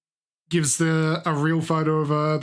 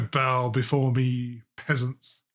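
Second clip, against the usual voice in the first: dark lord; 4 semitones lower, slower than usual. Pretend. Mock ruler commanding subjects.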